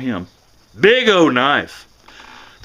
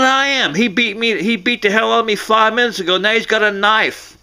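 high, breathless, frightened plea; panicked caller; 6 semitones higher than usual. Retold or imitated. Woman on the phone to dispatch, high and frightened. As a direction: beg for help while running from him.

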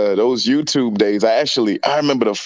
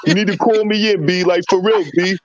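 higher and faster, hyped up like a pep talk to a rapper; hyped call to Cam; 6 semitones higher than usual. Retold or imitated. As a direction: talk fast and high, pumping him up. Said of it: "I should have hit him up and be like".

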